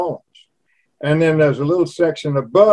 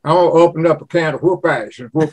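quick country Southern twang; Southern drawl; faster than usual. Shown as a demonstration. Showing how country folk talk, quick Southern drawl. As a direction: toss off a Southern boast. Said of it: "that's the way they talk".

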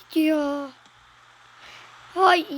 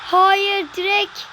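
shouting no; 4 semitones higher, 4 dB louder, slower than usual. Real, not acted. Near miss hits post.

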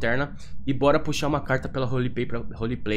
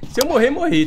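excited; 12 semitones higher, 6 dB louder than usual. Real, not acted. Drawing a risky tarot card.

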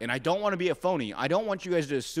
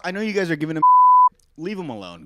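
laughing; 4 semitones higher, 10 dB louder, faster than usual. Real, not acted. Laughing while talking.

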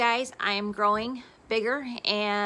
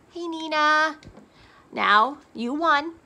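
excited announcement; 7 semitones higher, 6 dB louder, slower than usual. Real, not acted.

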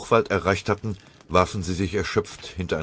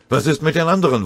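aufgeregt; 10 semitones higher, 7 dB louder, faster than usual. Acted. Hektische Frage im Gefecht.

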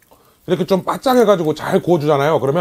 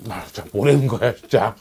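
laughing; 4 semitones lower, 5 dB quieter than usual. Real, not acted. Laughing at own joke.

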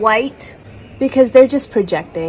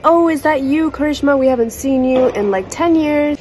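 aunties gushing, pitched up high; high mock auntie voice; 5 semitones higher than usual. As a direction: play the cooing old aunties. Aunties greet her at party.

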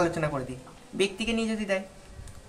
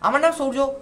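stuck restart; 4 semitones higher, 4 dB louder than usual. Shown as a demonstration. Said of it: "তারপরে আটকে যাবে".

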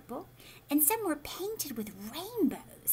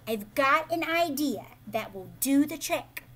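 excited cry; 3 semitones higher, 7 dB louder than usual. A narrator's reading. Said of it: "Liza cried".

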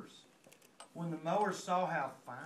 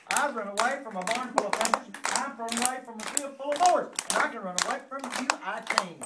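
boastful shout; 2 semitones higher, 4 dB louder, faster than usual. Acted. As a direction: chant building louder to the end. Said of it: "he shouted".

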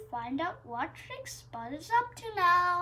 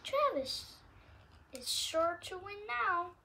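smug Spud; 4 semitones higher than usual. Acted. Spud gloats smugly.

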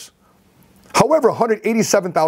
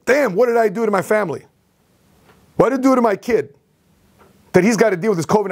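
retold distress, pitched higher; anguished self-reproach, moderately acted; freaking out, upset; 4 semitones higher than usual. Father learning his son has covid, retold upset. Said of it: "I'm freaking out, I'm mad, I'm upset".

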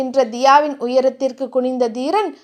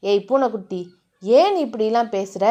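concerned lover; 4 semitones lower than usual. Acted. Hero gently questions his beloved.

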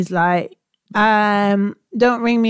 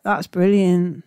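slow, unenthused praise; drawn-out, half-hearted congratulations; imitated feigned enthusiasm; 2 semitones lower, much slower than usual. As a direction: wrap up the call without any excitement. Feigned enthusiasm to end call.

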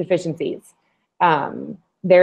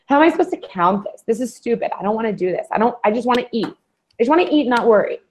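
higher, whiny mock exasperation; overwhelmed beginner; 5 semitones higher, faster than usual. Voicing a beginner confused by macros, mock exasperated whine. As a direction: play a fed-up newcomer throwing up their hands. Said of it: "they go".

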